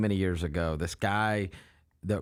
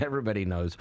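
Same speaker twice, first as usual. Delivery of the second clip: deadpan; 3 semitones lower than usual. Retold or imitated. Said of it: "just says it totally matter of fact".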